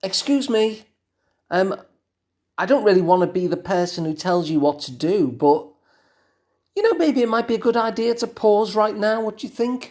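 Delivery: timid, gentle, meek, overly polite tone. Demonstrating one way to warn someone of danger, timid and gentle. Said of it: "really kind of timid and gentle about it".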